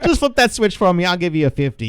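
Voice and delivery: high, loud voice through laughter; laughing. Retold or imitated. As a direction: laugh while playing the briber. Acting out bribing the cable guy while laughing.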